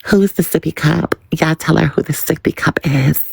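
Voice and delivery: quick, teasing radio-host delivery, the last line half-whispered; lightly voiced gossip host; fast, hushed, dishing on air; impression of a rapper. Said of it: "I'm pulling a Nicki right now".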